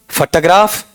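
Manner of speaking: फोटोग्राफ as "fa-ta-graaf", rising; फोटोग्राफ with a weak first syllable; second variant. Shown as a demonstration. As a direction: shorten the first vowel of फोटोग्राफ to "fa". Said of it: "मैं चारों बोल देता हूं".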